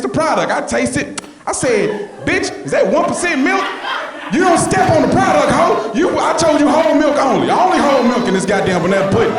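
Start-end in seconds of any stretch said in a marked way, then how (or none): 2.3-9.3 furious yelling. Retold or imitated. Boss screaming at the kids over the milk, furious yell. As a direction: scream at them like a mad boss.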